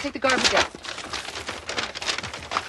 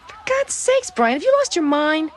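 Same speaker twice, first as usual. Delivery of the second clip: exasperated; 5 semitones higher, 3 dB louder, slower than usual. Acted. Exasperated at husband's denial.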